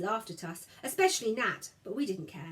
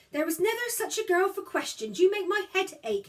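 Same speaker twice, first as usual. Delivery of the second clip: a hint of a weary mother, higher and louder; exasperated mother; 10 semitones higher, 6 dB louder than usual. A narrator's reading. Mother tired of her daughter's questions, exasperated. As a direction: sigh it out like a worn-out mother.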